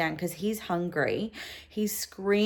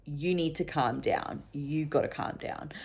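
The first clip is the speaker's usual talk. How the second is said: rational inner voice; 7 dB quieter than usual. Retold or imitated. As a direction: quietly talk yourself down, measured. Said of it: "my rational brain was like".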